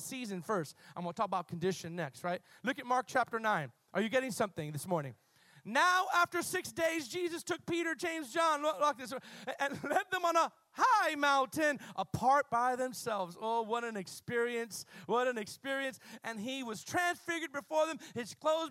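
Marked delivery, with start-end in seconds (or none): 5.7-13.4 excited preacher reading the text; fervent scripture reading. Real, not acted. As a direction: read it like good news.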